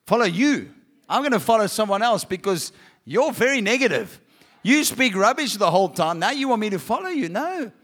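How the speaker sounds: mildly indignant, questioning comeback; mock incredulous refusal. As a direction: push back as a put-off listener. Listener rejecting the negative Christian.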